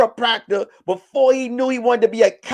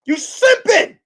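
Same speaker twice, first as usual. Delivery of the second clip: mocking girlfriend; 9 semitones higher, slower than usual. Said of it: "And she said".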